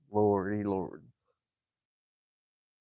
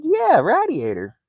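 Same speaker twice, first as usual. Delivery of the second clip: slow, louder, higher "Yeah, radiator"; mimicking the local; 13 semitones higher, 5 dB louder than usual. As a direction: imitate the local guy answering, sure of himself. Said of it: "They said".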